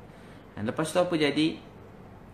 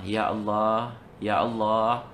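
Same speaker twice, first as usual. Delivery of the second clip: drawn-out, imploring call to God; pleading prayer; 3 semitones lower, much slower than usual. Retold or imitated. Students praying day and night for their teacher, pleading prayer. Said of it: "Siang malam doa".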